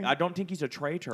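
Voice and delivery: bad Irish accent; leprechaun-like Irish lilt. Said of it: "You sound like a leprechaun".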